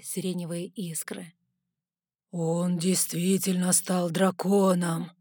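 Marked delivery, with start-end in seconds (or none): 2.3-5.1 slow bass rumble of a big bear-man; deep booming voice. Acted. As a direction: boom it out slowly. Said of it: "пробасил Тарк".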